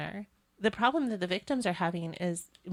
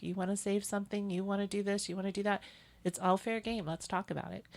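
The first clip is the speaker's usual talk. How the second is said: reassuring; 4 dB quieter than usual. Retold or imitated. Nurse's reassuring speech to families.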